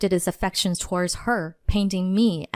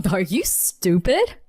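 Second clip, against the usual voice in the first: retorting; 3 semitones higher than usual. Acted. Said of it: "he retorted".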